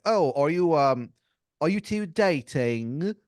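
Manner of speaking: a king nosily quizzing a couple; King doing crowd work. Acted. King of England teasing a couple in the crowd, slow and hammy. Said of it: "he goes like".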